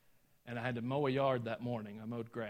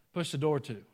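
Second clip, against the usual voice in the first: Southern phrase; 3 semitones higher, 6 dB louder than usual. Retold or imitated. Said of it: "You know what that means".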